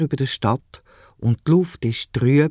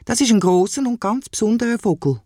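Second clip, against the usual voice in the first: put-on proud child; 8 semitones higher than usual.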